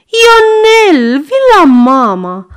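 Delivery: put-on high, loud call to the boy; mother calling. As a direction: call the child back sharply. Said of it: "strigă Madame Popescu".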